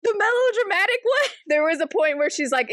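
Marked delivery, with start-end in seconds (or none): 0.0-1.3 outraged cry. Retold or imitated. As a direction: shout it back, offended and near tears. Heroine outraged at aunties.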